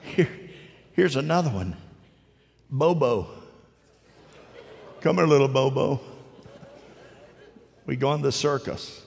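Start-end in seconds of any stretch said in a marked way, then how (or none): 2.7-6.0 calling out. Pretend. Calling imaginary child Bobo.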